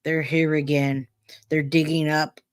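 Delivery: flat, even monotone. Retold or imitated. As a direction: say it with no feeling at all. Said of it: "in his monotone voice".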